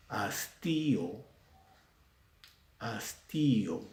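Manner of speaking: "Hastío" slowly, with a long stressed í; hiatus in hastío. Shown as a demonstration. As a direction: draw out as-TÍ, then a separate o. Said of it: "vocal cerrada con tilde".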